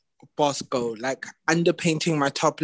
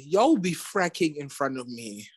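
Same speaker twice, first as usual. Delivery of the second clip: a softer whispered aside from the boss; whispered mock warning from RuPaul; 6 dB quieter than usual. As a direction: hush it like a secret threat. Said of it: "imagine RuPaul tells y'all".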